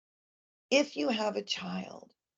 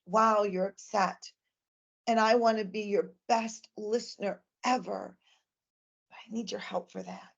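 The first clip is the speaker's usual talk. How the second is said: put-on calm reassuring to a child. Shown as a demonstration. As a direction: soothe the child and invite them to talk. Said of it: "the way I'll typically do it is I'll say to that child".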